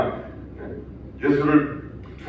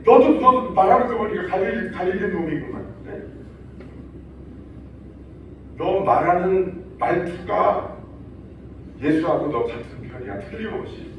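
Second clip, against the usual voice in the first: crowd accusing Peter; 2 semitones higher than usual. Retold or imitated. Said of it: "이러니까".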